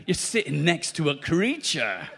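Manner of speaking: ordinary talk, nothing marked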